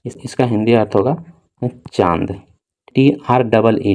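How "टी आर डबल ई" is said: slow spelling. Shown as a demonstration. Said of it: "ठीक है".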